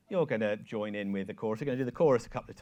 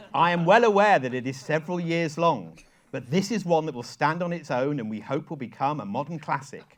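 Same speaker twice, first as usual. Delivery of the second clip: tags 1. Retold or imitated. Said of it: "Caroline sends me an email which says".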